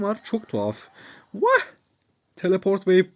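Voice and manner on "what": surprised what. Real, not acted. Confused by waypoint.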